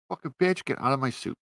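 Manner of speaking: loud, high mock outrage; acted angry retort. Reviewer ordering the heroine out of the suit, acted angry retort.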